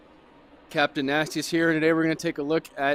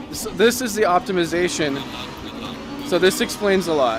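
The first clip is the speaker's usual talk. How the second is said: louder, emphatic rush of discovery; impressed excitement; 3 semitones higher, 4 dB louder than usual. Real, not acted. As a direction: let the amazement push your voice up in volume. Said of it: "this is hitting me in a big way".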